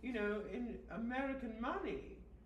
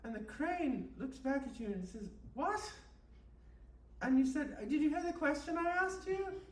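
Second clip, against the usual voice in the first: mock guided meditation. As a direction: lull them along like a spoof meditation tape. Host leads a mock guided meditation.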